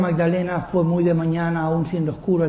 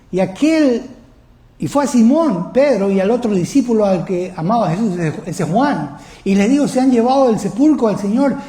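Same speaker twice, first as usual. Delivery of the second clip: higher, raised preaching voice; impassioned preaching; 5 semitones higher, 4 dB louder than usual. Real, not acted. Preacher recounting the empty tomb to the congregation, impassioned preaching. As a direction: drive the Bible story forward with force.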